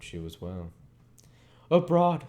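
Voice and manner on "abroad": much higher and louder, gloating; triumphant exclamation. Acted. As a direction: fling the word at him. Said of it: "said Miss Havisham".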